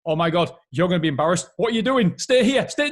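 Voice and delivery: fast, nervous warning; anxious inner voice. Retold or imitated. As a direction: fret like a worried mind. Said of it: "All it's thinking is".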